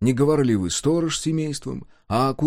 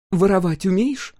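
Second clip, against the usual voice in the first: abrupt question; 9 semitones higher, 3 dB louder than usual. A narrator's reading. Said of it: "отрывисто спросила она".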